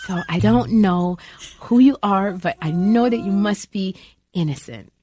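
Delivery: the gentle, sunny sitcom oddball who believes in everyone; Anne Flatch's voice. Acted. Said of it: "I talk like this all the time".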